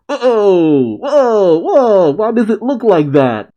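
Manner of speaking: high, surprised outburst; startled reaction. Real, not acted. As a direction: react in real astonishment, pitch jumping up. Reacting to a startling manga page.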